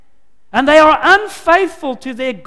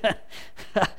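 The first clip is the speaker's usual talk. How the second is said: mischievous laugh; 4 semitones lower, 12 dB quieter than usual. Acted. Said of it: "with a rather mischievous laugh".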